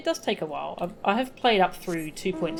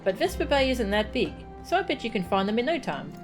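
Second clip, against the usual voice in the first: lightly voiced chatty child with lively swoops in pitch; eager child; 3 semitones higher than usual. Yozan greeting a traveller before the carriage ride, eager child. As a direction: play an eager, curious youngster.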